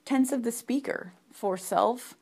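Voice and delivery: ordinary talk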